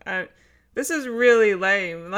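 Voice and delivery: leaning back from the mic; far from mic. Real, not acted. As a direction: voice off mic, distant. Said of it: "I'm gonna lean back".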